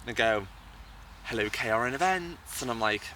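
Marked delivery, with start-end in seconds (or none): 1.2-2.6 telephone voice. Retold or imitated. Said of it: "a telephone voice".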